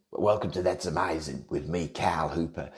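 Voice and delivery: lightly put-on Australian TV host; mock Australian sketch-show presenter; Cal Hooper. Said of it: "It was Australian".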